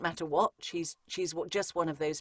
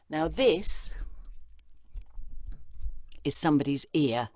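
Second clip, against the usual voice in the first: whisper. Shown as a demonstration. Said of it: "demonstrating the mic as an ear".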